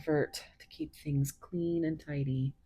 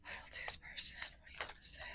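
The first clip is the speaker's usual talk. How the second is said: softly whispered question to the cards; 15 dB quieter, much faster than usual. Real, not acted. Tarot reader whispering to the chosen pile, hushed. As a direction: breathe it, barely voiced.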